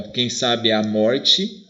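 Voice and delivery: "sabe a" linked smoothly in a slow reading; vowels joined. Shown as a demonstration. Teacher showing the verse as spoken, "sabe a" run together. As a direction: read "quem sabe a morte" slowly, "be a" as one. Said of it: "Você fala uma vez só".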